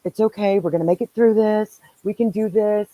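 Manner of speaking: gentle reassurance, unhurried; calm her down like a funeral director would; soothing funeral director. Retold or imitated. Comforting a panicking friend on speakerphone, soothing and reassuring. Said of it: "I'm instant funeral director mode".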